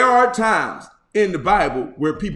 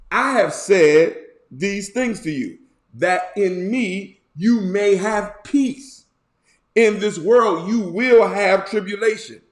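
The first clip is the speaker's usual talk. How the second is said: scripture reading; 3 semitones higher than usual. Acted. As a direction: proclaim the psalm to the congregation. Reads John aloud.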